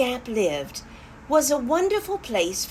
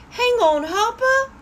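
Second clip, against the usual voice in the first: demo shout; 13 semitones higher, 5 dB louder than usual. Shown as a demonstration. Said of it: "Let's say it together".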